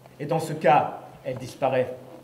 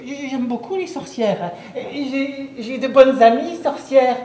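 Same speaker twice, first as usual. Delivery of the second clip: pleading; 4 semitones higher than usual. Acted. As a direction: beg the witch for mercy. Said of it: "je me mets à supplier".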